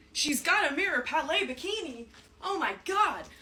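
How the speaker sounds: high, laughing mock-admiring voice; high-pitched squeal. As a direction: squeal over the bikini reveal. Hyping own bikini reveal, repeated.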